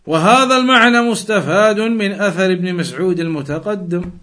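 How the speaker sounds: quick, steady recitation of the Arabic passage; fast formal text reading. Acted. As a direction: read the classical text aloud briskly, like a scholar citing a source. Reads classical Arabic source text.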